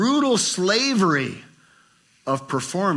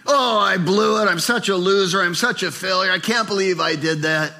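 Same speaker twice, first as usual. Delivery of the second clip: self-pity; 3 semitones higher than usual. Retold or imitated. Voicing a self-pitying Christian.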